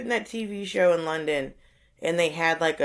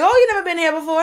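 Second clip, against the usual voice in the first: higher, louder mock surprise; 11 semitones higher, 6 dB louder, faster than usual. Old man teases a first-time customer, mock surprised. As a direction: act amazed at the newcomer. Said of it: "He's like".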